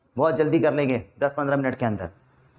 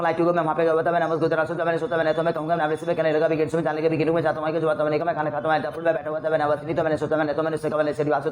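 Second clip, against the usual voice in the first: one-breath drill; faster than usual. Shown as a demonstration. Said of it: "आप अपने sentence बोलना अब सांस में".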